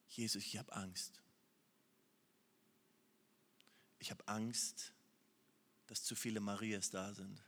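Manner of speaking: soft, low, near-whispered confession of fear; hushed anxious prayer. Acted. Preacher voicing a hushed prayer confessing fear to Jesus. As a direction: breathe the fear out quietly to Jesus.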